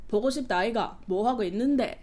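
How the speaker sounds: put-on swooping Busan-accented Korean; Busan dialect imitation. Imitating the Busan guy on the phone, Busan dialect. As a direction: lilt it up and down, Busan style. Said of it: "But then he's like".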